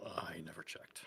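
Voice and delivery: whispered confession; whispering. Real, not acted. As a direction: drop to a whisper, almost sheepish. Whispered aside, unvoiced.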